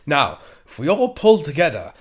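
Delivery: lightly voiced mock rallying speech; rallying Laszlo. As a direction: rouse the caged cats and dogs grandly. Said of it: "he said".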